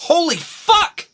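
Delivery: high slow cry of pain; Alana in pain. Acted. Alana swears during a contraction, high and drawn out. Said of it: "Alana doing the characters".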